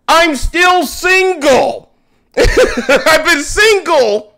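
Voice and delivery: loud drawn-out protest, slow; mock shout. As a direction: yell it like a wronged man, slowly. Retold comeback to accusing friend.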